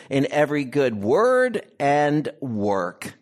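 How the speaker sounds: measured, solemn reading of scripture. Acted. Preacher reads scripture to the church, solemn and measured. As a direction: read the passage to the congregation.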